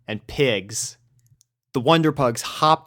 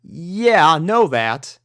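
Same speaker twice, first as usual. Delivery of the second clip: admitting Southern; 6 semitones higher, 4 dB louder, slower than usual. A narrator's reading. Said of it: "admitted Applejack".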